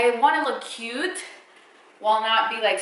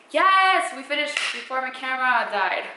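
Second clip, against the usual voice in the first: excited; 4 semitones higher than usual. Real, not acted. Relief as filming finishes.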